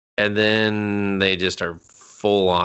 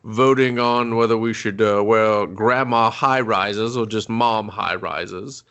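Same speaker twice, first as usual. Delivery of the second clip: mock pompous chairman; slower than usual. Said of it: "He's just like".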